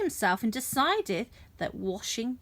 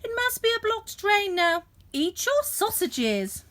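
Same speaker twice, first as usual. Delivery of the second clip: giant's wife; 9 semitones higher than usual. A narrator's reading. Wife voiced in story.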